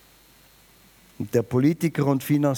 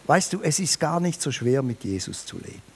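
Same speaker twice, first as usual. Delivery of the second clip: usual speaking voice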